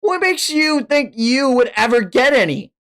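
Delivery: high, teasing put-down; a hint of a smug girl; mocking Asa. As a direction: needle him.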